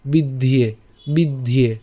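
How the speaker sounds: বিদ্ধিয়ে said as bid-die, joined; joined pronunciation. Shown as a demonstration. Teacher shows the joined form to students. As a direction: join বিদ্ধিয়ে into one smooth word. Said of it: "একসাথে উচ্চারণ করলে বিদ্ধিয়ে".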